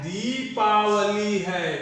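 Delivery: दीपावली slowly, with दी stretched out; slow teaching model of दीपावली, long दी. Shown as a demonstration. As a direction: hold the first vowel of दीपावली long. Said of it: "दीपावली गलत होगा".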